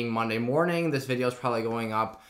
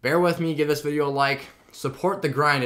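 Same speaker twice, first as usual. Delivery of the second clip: louder, higher plea; 4 semitones higher, 4 dB louder than usual. Real, not acted. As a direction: ask them to bear with you. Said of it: "I can feel them tugging every time I talk".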